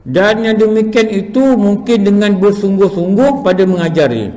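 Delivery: slow, measured reading of a religious text; reading text aloud. Acted. Teacher reads the lesson's text to students, measured reading. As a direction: read it out deliberately, word by word.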